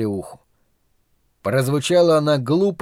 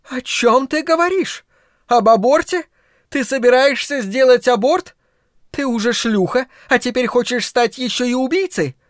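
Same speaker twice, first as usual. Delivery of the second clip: much higher, horrified accusing voice; shrill outrage; 10 semitones higher than usual. A narrator's reading. Carla, appalled at her daughter, shrieking high.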